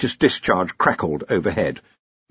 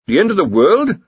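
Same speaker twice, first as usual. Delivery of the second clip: higher, fearful quaver; 8 semitones higher, 5 dB louder than usual. A narrator's reading. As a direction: ask in dread, voice wavering. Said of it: "quavered the senior wrangler".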